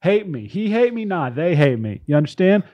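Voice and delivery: mock tout's sales pitch; lightly put-on infomercial huckster; gambling ad read. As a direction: sell betting picks like a hammy pitchman. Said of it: "This is a gambling ad".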